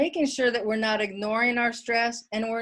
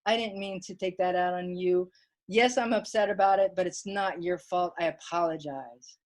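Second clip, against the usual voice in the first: retold apology; 4 semitones lower than usual. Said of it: "reflect on that behavior and say".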